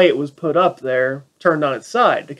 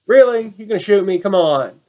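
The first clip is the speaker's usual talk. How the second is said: exasperated disbelief; 3 semitones higher than usual. Retold or imitated. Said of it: "looks at the guy like".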